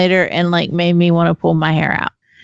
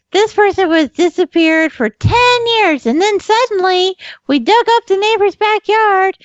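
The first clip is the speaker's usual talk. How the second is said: higher, dramatic true-crime narration; true crime narrator; 12 semitones higher than usual. Retold or imitated. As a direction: ham up a crime documentary voice. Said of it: "they're like".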